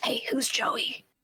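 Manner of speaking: hushed, quiet whisper. A player's character leans in to ask about someone, whispering. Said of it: "I lean in to whisper".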